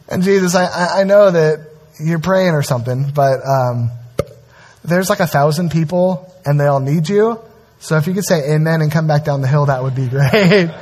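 sheepish plea. Pretend. Disciples pleading sheepishly.

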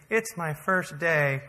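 drawn-out, mildly sad imitation; sad new checker. New checker to annoyed customer in line, mildly sad imitation. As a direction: imitate her, slow and a little forlorn. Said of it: "her face is really sad".

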